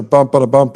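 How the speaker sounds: "bump, ba-da-bump" chanted as long, short, short, long; rhythm demo. Shown as a demonstration. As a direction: beat out "bump, ba-da-bump" like shave and a haircut. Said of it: "that metrical structure".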